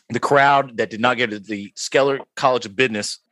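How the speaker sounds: talking through a burp; words around a burp. Real, not acted. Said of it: "Excuse me, I'm burping".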